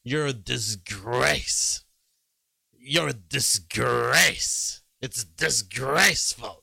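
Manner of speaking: slow, drawn-out mock Trump insult; a light Trump impression, stretching each word; imitating Trump. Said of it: "Trump, when he goes hard on someone, he loves to say".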